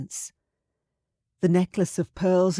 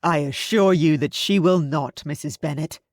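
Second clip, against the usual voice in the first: louder, hearty assurance; jovial Bingley; 4 dB louder than usual. Acted. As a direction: reassure her heartily. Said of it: "Mister Bingley said jovially".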